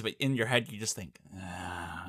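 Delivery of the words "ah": creepy breathy grin noise. Retold or imitated. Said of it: "he doesn't make that noise".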